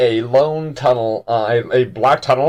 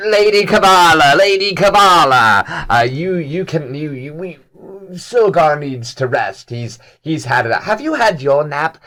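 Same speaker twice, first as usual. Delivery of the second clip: high, loud, excited little fish voice, pleading; a frantic little fish babbling up at his lady, higher and louder; Ort's voice; 4 semitones higher, 4 dB louder, slower than usual. Acted. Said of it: "little Ort kind of skitters up and goes".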